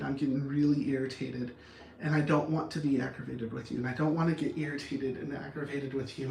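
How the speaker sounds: patient, softened request; calm, measured plea. Acted. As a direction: ask gently while holding back frustration. Demonstrates ways to respond.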